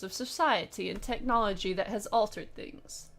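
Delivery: a hint of a stern German officer; lightly voiced, grave warning, not much accent; attempted German voice. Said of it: "I wish I could do a German accent".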